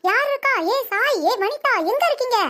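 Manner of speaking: high panicked shrieks for help; terrified scream. Acted. Grandma spotting the ghost in the dark, shrieking in terror. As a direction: scream for the family in fright.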